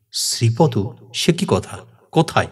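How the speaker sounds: startled questions in short bursts; astonished. Acted. Younger brother reacts to his brother's sighting, astonished. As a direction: ask in mild disbelief. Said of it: "আশ্চর্য হয়ে".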